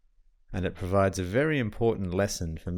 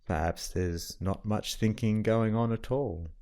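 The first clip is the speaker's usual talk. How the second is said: calm, even meditation guide with long pauses; guided meditation. Acted. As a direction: settle the listener gently, leaving long silences between phrases.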